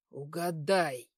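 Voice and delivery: low, slow menacing taunt; hissing satyr. A narrator's reading. Satyr taunting the girl he has cornered, hissing. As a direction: draw it out low, like a sneering satyr. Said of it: "прошипел сатир".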